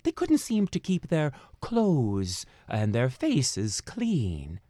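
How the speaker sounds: plain reading voice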